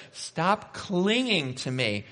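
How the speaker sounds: high, drawn-out comic plea; humorous protest. Acted. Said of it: "kind of humorous".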